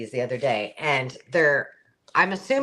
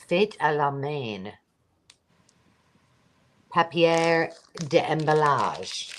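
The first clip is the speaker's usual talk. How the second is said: French accent; slower than usual. Shown as a demonstration. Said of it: "There's my French for the day".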